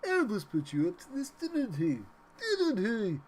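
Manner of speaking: high, loud put-on voice; high-pitched mock accusation; quoted character voice. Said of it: "If anyone gets that reference".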